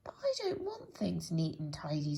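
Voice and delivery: unvoiced woeful protest; miserable protest. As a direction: whisper it, dreading the thought. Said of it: "looking downright miserable".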